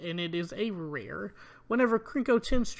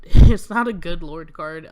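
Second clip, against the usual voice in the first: laughing dismissal; 16 dB louder than usual. Real, not acted. Mocking weak card.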